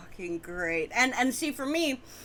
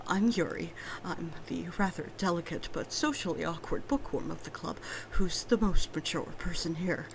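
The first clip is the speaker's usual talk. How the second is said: shy soft voice; 3 semitones lower, 3 dB quieter than usual. Acted. Voicing shy character Yuri.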